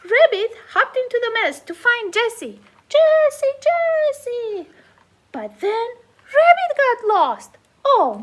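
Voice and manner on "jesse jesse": calling out. Acted. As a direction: shout the name into the mess. Rabbit calls Jesse.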